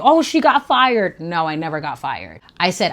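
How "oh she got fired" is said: mock gasp. Imagined listener assumes the worst.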